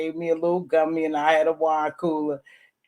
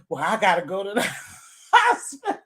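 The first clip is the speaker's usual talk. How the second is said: laughing quote; faster than usual. Retold or imitated. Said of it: "I said".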